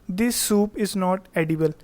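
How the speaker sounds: slow, careful read-aloud of the example; teacher dictating an example. Shown as a demonstration. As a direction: read the sentence out slowly for the class. Teacher reads example sentence slowly.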